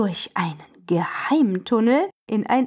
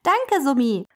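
slightly higher, happy thanks; pleased thanks; 4 semitones higher than usual. Acted. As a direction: thank a friend gladly. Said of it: "freut sich der kleine I C E". (freudiges Danke)

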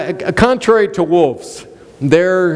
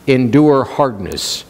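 slow emphasis; 5 semitones lower, slower than usual. Shown as a demonstration. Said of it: "He said".

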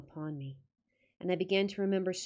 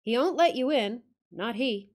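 louder, higher gruff Yorkshire growl; 4 semitones higher, 6 dB louder than usual. Acted. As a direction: growl it like a surly old guide. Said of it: "attempt the accent".

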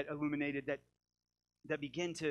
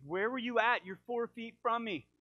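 wife's exasperated question; 6 semitones higher, 5 dB louder than usual. Retold or imitated. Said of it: "She's like".

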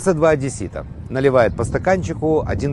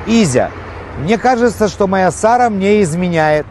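high, excited Odessa husband; odessa russian accent; 6 semitones higher than usual. Acted. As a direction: ask it with Odessa Jewish lilt.

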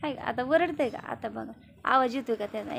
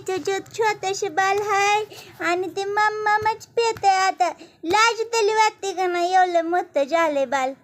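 mock scolding; 5 semitones higher, 4 dB louder than usual. Real, not acted.

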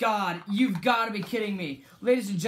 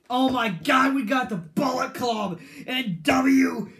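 loud, higher fan hype; shouting with joy at the screen; excited cheering; 3 semitones higher, 5 dB louder, slower than usual. Real, not acted. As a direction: cheer it like the crowd just popped. Excited fan cheering Bullet Club.

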